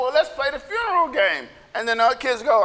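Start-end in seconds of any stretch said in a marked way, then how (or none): 0.0-1.5 lightly lifted pitch, falling at the end; mildly eager counter-offer; hopeful kid's suggestion. Acted. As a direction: offer another game instead. Kids proposing another game.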